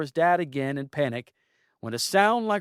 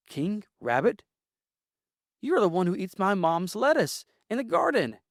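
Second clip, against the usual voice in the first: yelled back; 7 semitones higher than usual. Acted. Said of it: "Benjamin yelled back".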